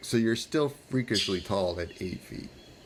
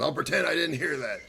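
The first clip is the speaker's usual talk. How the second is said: guard's aside; 5 semitones higher than usual. Acted. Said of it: "Another guy says".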